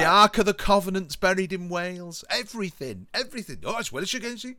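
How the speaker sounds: playful Welsh impression, insisting on his theory; lightly hammed-up Welsh; imitated Welsh accent. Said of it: "he does it in a Welsh accent".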